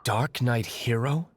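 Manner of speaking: slow, skeptical repeat of the name; dry disbelief at a name; unimpressed. Acted. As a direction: say it like a silly title. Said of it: "Sounds awfully derivative to me".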